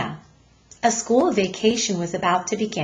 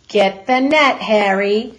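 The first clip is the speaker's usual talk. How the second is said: mocking call; 6 dB louder than usual. Second policeman mocking.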